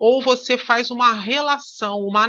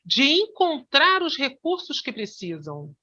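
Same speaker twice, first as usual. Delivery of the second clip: "encontrar os recursos que precisam" set apart in a higher pitch; emphasised embedded phrase; 4 semitones higher, 3 dB quieter than usual. Shown as a demonstration. Hypnosis teacher demonstrating analogical marking, emphasising "encontrar os recursos que precisam". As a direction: lift "encontrar os recursos que precisam" above the rest of the sentence. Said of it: "Eu, eu tô enfatizando".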